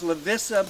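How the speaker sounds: Lavissa with a short i, "la-VISS-a"; spelled-form pronunciation. Shown as a demonstration. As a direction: say "Lavissa" as written, ending in "ah". Name as written, set against pronunciation.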